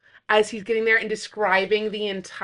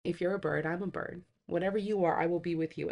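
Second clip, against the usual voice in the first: tender quote; 2 semitones lower, 5 dB quieter than usual. Retold or imitated. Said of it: "describing this perfect love".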